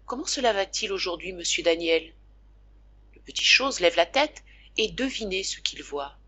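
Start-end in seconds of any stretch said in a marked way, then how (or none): 0.1-2.1 gentle, quiet question; soft voice. Acted. The young girl gently greeting the convalescent boy. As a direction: ask him tenderly how he feels. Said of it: "une voix très douce".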